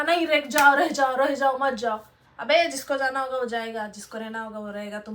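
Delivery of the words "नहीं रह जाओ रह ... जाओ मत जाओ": loud, insistent mock begging; mock pleading. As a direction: act out begging someone to stay, louder at first. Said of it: "क्यों किसी को अपने विनती करना". (गिड़गिड़ाने की ज़ोरदार नकल)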